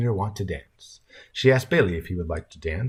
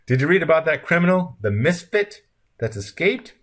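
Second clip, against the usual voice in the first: put-on high, louder old lady's question; grandmother asking; 9 semitones higher, 5 dB louder than usual. A narrator's reading. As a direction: ask eagerly in a high grandmotherly voice. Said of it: "asked the grandmother".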